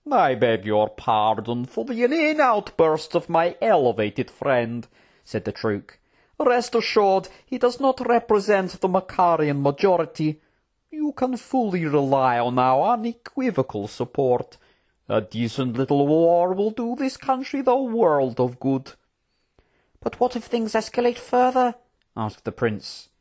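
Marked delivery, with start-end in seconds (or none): 0.1-4.9 oily, courtly apology with swooping tune; smooth Trook politician. Acted. Trook apologising to the general for his prince, smooth. 6.4-18.9 assured courtly voice, swooping in tune; smooth Trook politician. Acted. Trook pledging support to the general, smoothly persuasive. 20.0-21.7 high, anxious royal voice; worried prince. Acted. Prince questioning the war plans, high and worried.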